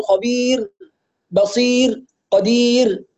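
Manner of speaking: خبير بصير قدير with a final ra that is too tense and moved; wrong tense ra. Shown as a demonstration. Teacher showing student a wrong final ra. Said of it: "لا نقول".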